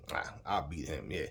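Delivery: low, soft, lazy mock confidence; understated imitation of a smug fighter; mock cocky mutter. Mocking fighter's cocky thought.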